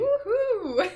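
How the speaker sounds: high, loud woohoo; excited cheer. Real, not acted. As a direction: cheer it out like at a rodeo. Excited cheer at spicy mustard.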